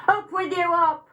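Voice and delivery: understated ringmaster bellow; bellowed order. A narrator's reading. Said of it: "the ringmaster bellowed".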